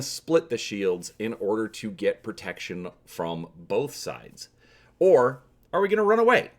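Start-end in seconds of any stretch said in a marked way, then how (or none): 5.0-6.5 hammy stage actor. Acted. Playful last option, comic flourish.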